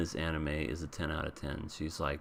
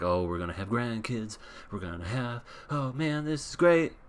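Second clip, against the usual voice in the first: happy; 3 semitones higher than usual. Retold or imitated. Grandparents delighted at the thought of grandkids, happy mock gushing that rises. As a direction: build to an elated, hammed-up finish. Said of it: "And then they're both happy".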